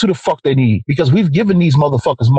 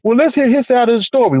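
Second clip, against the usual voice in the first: mock reasonable tone; 7 semitones higher than usual. Mocking defenders of shooters.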